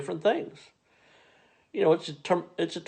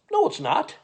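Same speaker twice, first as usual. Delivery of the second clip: much higher, sharp disbelieving no; incredulous retort; 13 semitones higher than usual. Retold or imitated. To the Milwaukee comic, high incredulous outburst. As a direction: shoot it down in disbelief. Retort to the tourist attraction claim.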